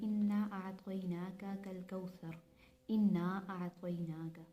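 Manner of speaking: slow, drawn-out recitation; Quran recitation. Shown as a demonstration. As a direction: recite the verse slowly as in Surah Kausar. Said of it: "जिस तरह हम लोग सूरह कौसर में पढ़ते हैं". (धीमी क़िराअत की तरह)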